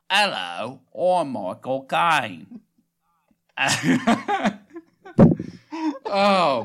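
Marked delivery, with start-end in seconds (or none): 0.1-2.6 more nasal, very drawn-out celebrity impression; Michael Caine. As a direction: push it through the nose and stretch each word. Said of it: "go a little more nasally".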